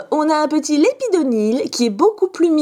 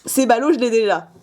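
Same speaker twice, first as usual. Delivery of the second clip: ordinary talk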